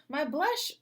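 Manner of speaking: high, fast shrieking sister. Acted. Sister shrieking from the bathroom about her brush, high and fast. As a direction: squeal in teenage panic. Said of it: "Shauna started shrieking".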